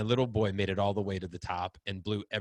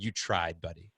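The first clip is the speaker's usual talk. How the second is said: gentle consoling; 6 semitones lower, 4 dB quieter than usual. Retold or imitated. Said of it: "I just said".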